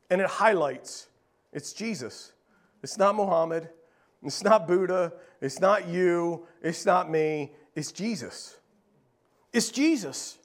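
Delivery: low, near-hushed, stressing not each time; hushed emphasis. Real, not acted. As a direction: lean in and say it softly. Preacher contrasts Jesus with others.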